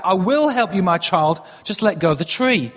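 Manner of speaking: a hint of God's voice, steady and measured; lightly voiced God. God answering the man hanging from the cliff, lightly voiced divine reply. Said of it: "a voice came back".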